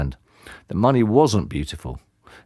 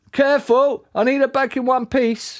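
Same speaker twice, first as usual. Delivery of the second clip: mild shout. A narrator's reading. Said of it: "shouted Dad after them".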